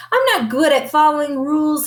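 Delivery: rushed sheepish confession; confessing. A narrator's reading. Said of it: "confessed the kitty boy".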